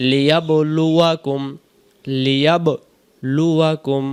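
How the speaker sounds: লিয়াবলুয়াকুম measured, with a short unstretched "wa"; careful recitation. Shown as a demonstration. Teacher modelling the word twice, measured recitation with short wa. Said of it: "ওয়াতে কিছু নেই".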